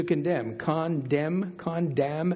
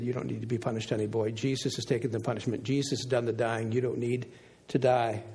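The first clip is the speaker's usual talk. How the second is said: tender reassurance; 4 semitones lower, 4 dB quieter, faster than usual. Retold or imitated. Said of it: "And I said".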